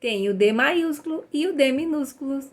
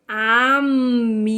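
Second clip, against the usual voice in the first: drawn-out read-along; 4 dB louder, slower than usual. Shown as a demonstration. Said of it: "Mais rápido".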